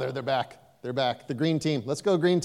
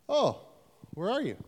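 much higher, wailing mock plea; whiny plea; 9 semitones higher than usual. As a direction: whine it up high like a lost child. Repeated plea, second take higher.

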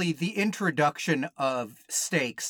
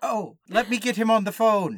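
Italian prince voice; 6 semitones higher, 4 dB louder than usual. Pretend. S0 voices prince transferring call.

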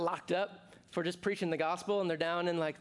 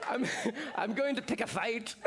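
said through laughter, higher; laughing; 7 semitones higher than usual. Real, not acted. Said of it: "laugh heard on line".

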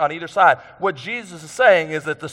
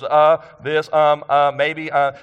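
halting string of filler words; demonstrating fillers; slower than usual. Shown as a demonstration. Preacher showing the congregation how fillers sound, halting. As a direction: stumble through ums and uhs on purpose. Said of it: "maybe you use fillers".

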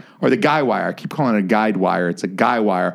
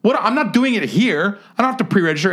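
retold indignation; 11 semitones higher than usual. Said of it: "I was like".

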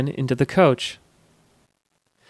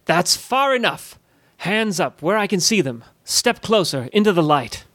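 fierce roar; 3 semitones higher than usual. A narrator's reading. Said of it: "Durkee roared with a fierceness".

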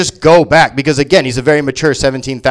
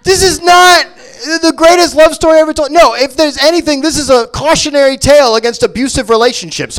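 high, louder mock announcement; mock grandeur; 10 semitones higher, 3 dB louder than usual. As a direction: declaim it like a solemn trailer voice.

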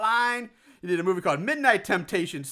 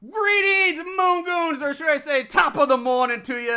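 high, hammed-up Irish greeting; lightly put-on Irish accent; a bad Irish accent, played for laughs; horrible Irish accent; 9 semitones higher, 5 dB louder than usual. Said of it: "I do a horrible Irish accent".

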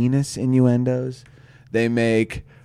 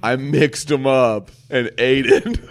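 laughing through quote; 6 dB louder, slower than usual. Retold or imitated. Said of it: "And he's like".

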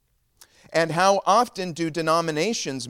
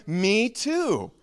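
high, eager agreement; acted thrill at finding common ground; delighted discovery; 7 semitones higher than usual. First man to second man, high delighted agreement.

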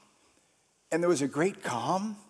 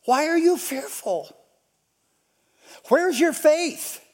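raised question; 7 semitones higher than usual. Acted. Repeats question louder.

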